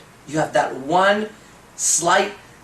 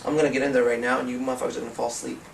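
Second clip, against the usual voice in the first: lower, softer and quick, like casting a sleep spell; mock hypnotic threat; 4 semitones lower, 4 dB quieter, faster than usual. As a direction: lull the guards to sleep. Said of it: "walking up to the guards and going".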